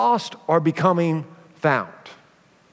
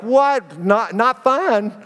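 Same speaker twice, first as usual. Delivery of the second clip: mock parental shock; 4 semitones higher, much slower than usual.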